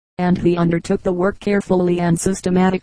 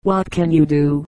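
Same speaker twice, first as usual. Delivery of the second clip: exasperated; 3 semitones lower than usual. A narrator's reading. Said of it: "cried the woman in puzzled exasperation".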